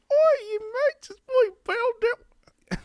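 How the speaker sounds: put-on horrible high-pitched British accent; squeaky falsetto mock British, slow opening; badly faked British in a very high voice; Belle Delphine. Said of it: "the pitch".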